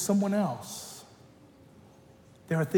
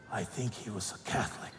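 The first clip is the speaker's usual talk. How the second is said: hushed confiding; 7 semitones lower, 11 dB quieter than usual. Retold or imitated. Grandmother confides in story.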